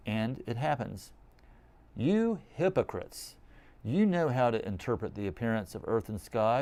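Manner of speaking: measured, emphatic scripture read; solemn liturgical reading; gospel reading. Acted. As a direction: proclaim the Gospel to the congregation. Reads the Gospel.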